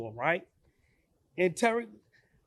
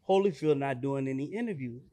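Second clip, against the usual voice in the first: lightly voiced guard, a bit low; a hint of a deep bouncer refusing; security guard; 5 semitones lower, 3 dB quieter than usual.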